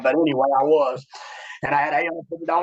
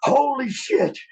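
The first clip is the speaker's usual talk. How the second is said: excited greeting; 10 semitones higher, slower than usual. Retold or imitated. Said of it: "and they're like".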